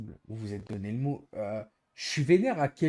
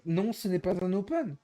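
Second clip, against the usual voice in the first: mock repeated answer; 6 semitones higher than usual. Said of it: "Pour dire".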